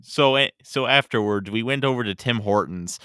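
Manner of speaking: put-on Canadian dialect; Canadian chit-chat voice; Canadian accent. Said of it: "Can you do a Canadian dialect?".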